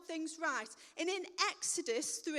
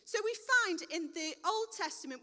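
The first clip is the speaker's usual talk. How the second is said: ordinary delivery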